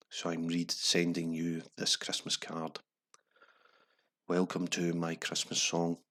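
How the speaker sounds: slow, sombre newsreader read; grave news voice. Shown as a demonstration. Host reading the lyric like grim headlines. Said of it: "There's been bad news on the news".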